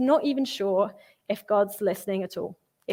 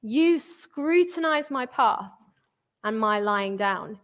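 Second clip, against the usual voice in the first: slow psalm reading; slower than usual. Acted. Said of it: "angry and emotional and spiraling".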